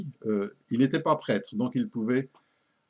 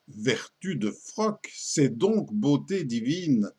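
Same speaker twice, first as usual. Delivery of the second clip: poem recitation; slower than usual. Acted. Confessor quoted in poem.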